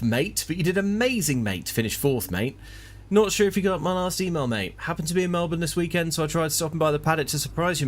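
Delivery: chummy mate voice, every mate tacked on; a hint of a clingy old mate; lightly voiced Aussie pal. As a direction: read it like an overfriendly hanger-on. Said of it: "email from old pal Brian".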